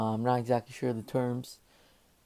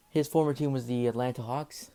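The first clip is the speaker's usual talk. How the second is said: out of breath. Real, not acted. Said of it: "Sorry if I'm a bit out of breath".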